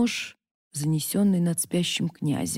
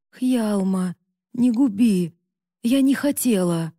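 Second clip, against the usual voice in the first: sobbing plea; 3 semitones higher, 3 dB louder than usual. Acted. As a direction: beg through sobs. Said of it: "всхлипнула надрывно".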